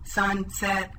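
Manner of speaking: Sunset chopped into two flat, even pieces, SUN and SET; level robot monotone, one piece per syllable; robot speak. Shown as a demonstration. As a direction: chop Sunset apart like a robot. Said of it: "Let's say these words like the robot".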